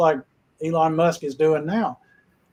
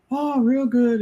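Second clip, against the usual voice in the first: breezy, raised, offhand brush-off; dismissive; 7 semitones higher, slower than usual. Retold or imitated. NASA man brushing off the boy, lightly dismissive. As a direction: toss off the praise without caring. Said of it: "just kinda dismissed him".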